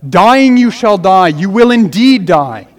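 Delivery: slow, loud stress on "Dying", then "indeed"; weighty emphasis on "Dying" and "indeed"; emphatic warning. Shown as a demonstration. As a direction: hit "Dying" hard and lean on "indeed". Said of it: "There's an emphasis in God's warning".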